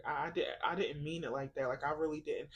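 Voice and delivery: soft, low, hesitant imitation; subdued retold apology. Spouse explaining he didn't mean it, quiet and apologetic. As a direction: voice dropped, as if sheepishly apologizing.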